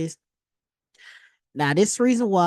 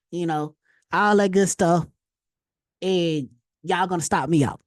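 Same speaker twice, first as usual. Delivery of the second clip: louder pleading, pushing the words out hard; half-joking begging to be left alone; begging rant; 4 dB louder than usual. Retold or imitated. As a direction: plead with the market to leave you alone. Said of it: "I'm like, begging these people".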